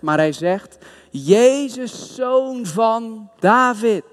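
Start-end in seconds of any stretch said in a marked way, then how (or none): 1.1-4.0 hoger roepend, langzaam uitgesproken. Retold or imitated. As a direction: roep om hulp naar Jezus. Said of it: "En dan begint hij te roepen". (bedelaar roept hoger en traag naar Jezus)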